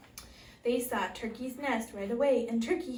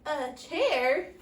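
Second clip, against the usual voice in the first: stammering; 3 semitones higher, 4 dB louder, slower than usual. Acted. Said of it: "Turkey stammered".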